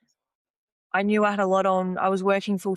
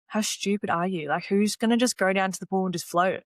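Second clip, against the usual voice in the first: indignant rant; 2 semitones higher than usual. Retold or imitated. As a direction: scoff at the idea of floating. Retold indignant thoughts at coach.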